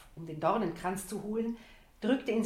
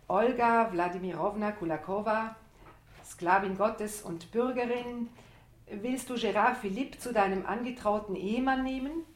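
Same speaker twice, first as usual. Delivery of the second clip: solemn priest; 3 semitones higher, 4 dB louder than usual. Pretend. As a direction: play the priest marrying them, ceremonious. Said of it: "Du spielst den Priester".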